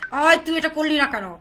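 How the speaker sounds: loud mock telling-off through gritted teeth; play-acted angry confrontation, loud at first; teeth-gritting scolding. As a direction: demonstrate a hostile, glaring demand. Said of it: "দাঁত মুখ কিরমির করে".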